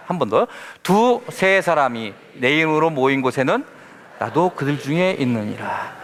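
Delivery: measured scripture reading to the congregation. Acted. Preacher leading congregation in scripture reading, solemn. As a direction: read the verse aloud with solemn cadence. Scripture read aloud together.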